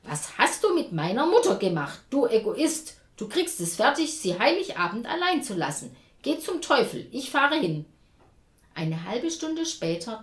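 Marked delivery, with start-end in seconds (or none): 0.0-7.9 ऊँची, तेज़ आवाज़ में गुस्से से चिल्लाती बहन; furious outburst. A narrator's reading. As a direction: shout at the brother, loud and higher. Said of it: "Jessica bekam einen Wutanfall".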